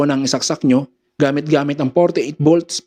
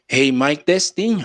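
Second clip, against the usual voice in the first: thin mic check without bass; bass cut; slower than usual. Shown as a demonstration. Sound tech showing bass turned down, bassless voice. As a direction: test the mic with the lows removed. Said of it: "nawalan ng bass".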